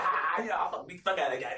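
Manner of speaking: imitating laughing. Storyteller mimics the man once they go inside, mock laughing. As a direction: laugh through it, imitating him. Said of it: "he's like laughing".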